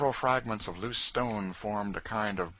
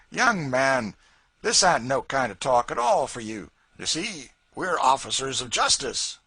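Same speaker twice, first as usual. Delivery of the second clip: much higher and louder, placating; puffy officer; 6 semitones higher, 7 dB louder than usual. A narrator's reading. The short puffy man to George, placating. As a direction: soothe a rash young man.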